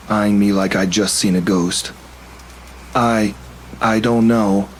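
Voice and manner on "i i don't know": stammering. Acted. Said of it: "I stammered".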